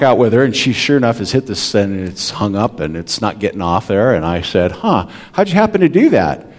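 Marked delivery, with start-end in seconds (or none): 4.7-6.5 wry dad questioning. Retold or imitated.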